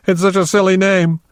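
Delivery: high, breaking into laughter; laughing hard. A narrator's reading. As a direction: squeeze the words out through helpless laughter. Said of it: "began laughing so hard she was doubled up".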